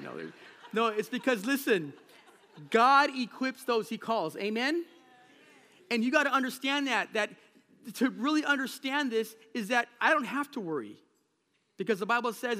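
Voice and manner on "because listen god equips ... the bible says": preaching loudly. Acted. Preaching at full force.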